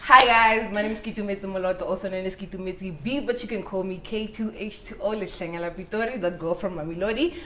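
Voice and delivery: fast show-style self intro; signature intro. Acted. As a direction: rattle off the trademark intro. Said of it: "I love your intro".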